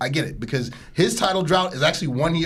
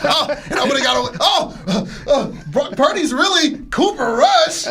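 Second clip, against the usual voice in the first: Scooby-Doo villain voice; 7 semitones higher, 4 dB louder, slower than usual. Retold or imitated. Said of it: "like the Scooby-Doo mask".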